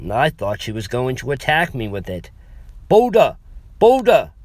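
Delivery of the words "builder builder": put-on higher and louder, insistent foreign accent; more intense. Frustrated old woman repeating herself to the clerk, loud and insistent. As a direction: push the word hard, she isn't being understood. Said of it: "she said again".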